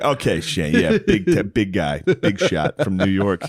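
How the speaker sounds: slow mocking big shot; sarcastic. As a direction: tease him slowly. The speaker mocking Shane.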